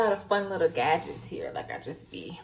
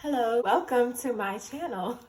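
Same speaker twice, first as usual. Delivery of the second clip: cheery YouTube greeting, a little higher; upbeat channel intro; 4 semitones higher, 3 dB louder than usual. Shown as a demonstration. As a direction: sell the welcome with a smile. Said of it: "I'm gonna do this a thousand times".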